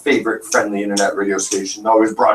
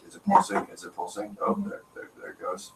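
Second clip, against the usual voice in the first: anxious whisper; 10 semitones higher, 11 dB quieter than usual. Retold or imitated. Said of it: "look at this meter and be like".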